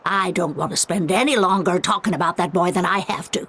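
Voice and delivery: brisk, impatient brush-off; curt dismissal. Acted. Bitter mother brushing off the visitors, fast and curt. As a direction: cut them off, annoyed and quick.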